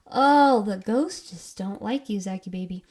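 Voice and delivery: playful teasing pity, big on the first word; mock sympathy. Host teasing Zach about the ghosts, mock sympathy.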